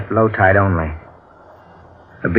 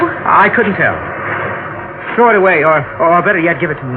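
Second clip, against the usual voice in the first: nervous; 8 semitones higher than usual. Acted. Husband nervous over the heel.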